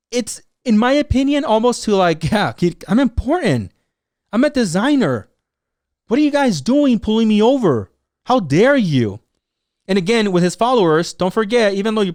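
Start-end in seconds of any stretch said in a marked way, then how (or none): 2.3-9.2 mock self-important outrage, higher on the boasts; indignant celebrity. Influencer indignant at cops pulling him over. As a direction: act affronted at being pulled over.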